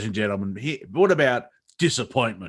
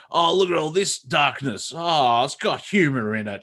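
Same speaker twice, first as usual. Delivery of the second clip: higher-pitched imitation of a let-down customer; hammed-up disappointed complaint; mock dismay; 3 semitones higher than usual. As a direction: play at being put out. Mocks market reacting to dark comedy.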